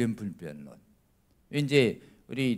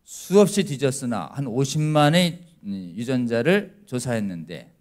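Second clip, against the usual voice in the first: usual speaking voice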